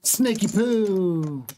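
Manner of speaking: very slow, high sing-song; drawn-out sing-song. Shown as a demonstration. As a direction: stretch it out playfully. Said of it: "I got something to tell you".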